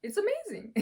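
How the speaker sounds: normal talking voice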